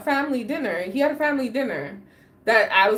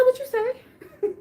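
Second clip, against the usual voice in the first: high, slow wavering question; disbelieving; 12 semitones higher, slower than usual. Retold or imitated. Calling her ex back, high slow disbelief. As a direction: ask in shock. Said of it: "I said".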